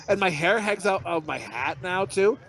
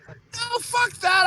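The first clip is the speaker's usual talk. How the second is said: defiant refusal; much slower than usual. Retold or imitated. Acted defiant reply to wife.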